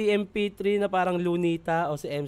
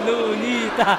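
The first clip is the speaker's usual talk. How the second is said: high, loud mock chant of "Lunita"; imitating crowd's shout; 6 semitones higher, 7 dB louder, much slower than usual. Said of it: "sumisigaw yung tao dito ng Lunita". (ginagayang sigaw ng mga tao)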